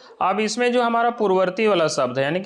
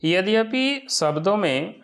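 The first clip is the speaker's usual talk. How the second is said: यद्यपि शब्दों में read slowly, word by word; slow dictation of यद्यपि शब्दों में; 2 semitones higher, slower than usual. Shown as a demonstration. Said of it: "क्या कहा गया है कि यद्यपि शब्दों में".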